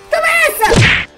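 high loud gleeful push; triumphant shout. Acted. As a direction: shout it as you shove. Pushes him into pool.

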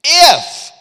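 "If" shouted high and loud; stress on if. Shown as a demonstration. Preacher mocking the loophole if, loud stress. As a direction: hit the word "If" hard and high. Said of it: "but if".

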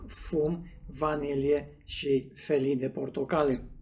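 sniffing whisky while talking; glass near lips; speaking into a glass. Real, not acted. Seen 2: Sniffs tasting glass at nose/mouth until about 4.9s, then lowers it.

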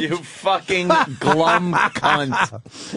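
slow, savouring mock delivery; mimicking Mel's sneer. Host relishes the caller's line, slow mock impression. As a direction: lean on each word like quoting a classic.

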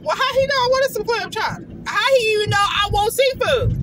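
high-pitched, pleased disbelief; mock amazement. Woman privately wondering how he knew her taste, mock amazed. Voices own unspoken delighted surprise.

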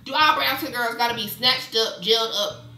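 loud, rising exasperation; indignant rant. Real, not acted. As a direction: demand an answer, punching each question. Ranting at the stereotype.

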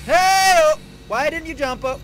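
sudden loud high yell at the partner. Real, not acted. Player yelling at his partner for not jumping, loud. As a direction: bark it out, shocked and annoyed.

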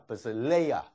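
"but sit LAYER" with a rise and fall on "lay"; stress on LAYER. Shown as a demonstration. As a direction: lean into LAYER after a light "but sit". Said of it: "重音在这里". (重音落在layer上)

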